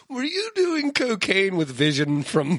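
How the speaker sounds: laughing mock question. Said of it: "and just be like".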